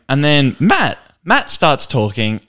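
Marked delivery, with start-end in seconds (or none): none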